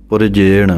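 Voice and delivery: ਪੁਰਜੇਣ with a faint i after ਰ; pronunciation demo. Shown as a demonstration. Teacher showing students the subtle sihari in ਪੁਰਜੇਣ. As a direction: say ਪੁਰਜੇਣ as pu-ri-jeṇ, the i very light. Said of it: "ਰਾਰੇ ਦੇ ਸਿਹਾਰੀ ਹੈ, ਇਹ ਵੀ ਬੋਲਣੀ ਹੈ ਸੂਖਮ".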